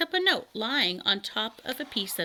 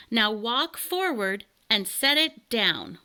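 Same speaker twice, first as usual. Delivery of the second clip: calling out; 2 semitones higher, 4 dB louder than usual. Acted. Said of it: "yelled Elmer".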